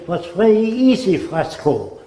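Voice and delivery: imitating an old German pilot's accent, lightly; a hint of a German accent, starting high. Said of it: "That's the way he spoke".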